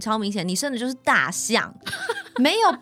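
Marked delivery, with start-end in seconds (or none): 1.8-2.3 a short, very high giggle; squeaky laugh. Real, not acted. 笑生大象的笑话. (短促尖细的笑声)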